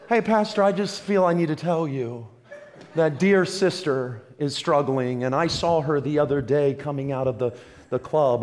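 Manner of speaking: low, soft, confiding gossip voice; gossipy church member. Retold or imitated. Church member whispering gossip to the pastor, hushed and low. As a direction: lean in and feign concern while telling tales.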